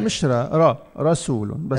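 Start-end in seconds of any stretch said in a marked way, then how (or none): 0.2-0.5 را with a light, front vowel; thinned ra. Shown as a demonstration. Teacher showing what to avoid, thin light را. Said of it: "ما نرققه، ما نقول را". 0.6-1.5 full, back "raw" sound in را and رسول; heavy ra. Shown as a demonstration. Teacher modelling رسول with the r made heavy. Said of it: "ما نرققه، ما نقول را".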